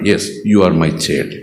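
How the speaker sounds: low, very slow, tender divine reply; slow deep fatherly assurance; voice of God. Acted. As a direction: speak as God reassuring his child. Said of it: "దేవుడు అంటున్నాడు".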